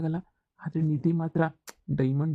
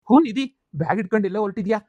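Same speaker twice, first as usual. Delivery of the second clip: loud greeting; 2 semitones higher, 4 dB louder, faster than usual. Acted. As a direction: burst out with a noisy hello. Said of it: "ಏ, ನಿಧಾನಕ್ಕೆ ಮಾತಾಡು".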